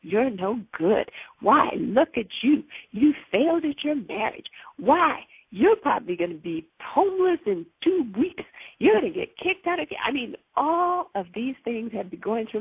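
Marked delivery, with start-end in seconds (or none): 0.0-10.0 lightly voiced nagging accuser; wicked inner voice. Demon listing her failures in her head, lightly acted accusing. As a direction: jab out each accusation, a hint of wicked taunt. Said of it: "that wicked, raspy voice".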